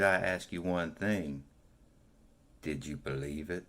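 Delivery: a hint of a Southern Belle winding up her story; Southern Belle accent. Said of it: "where you're a Southern Belle".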